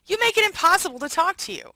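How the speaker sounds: mock exasperation at a partner; exasperated whine. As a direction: whine it like the wounded party. Voicing a narcissist's complaint.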